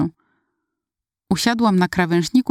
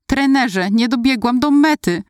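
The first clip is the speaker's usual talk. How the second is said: higher, teary wail to the coach; a mild sobbing plea, pitched up; lamenting; 5 semitones higher than usual. Retold or imitated. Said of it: "lamentowałam dalej".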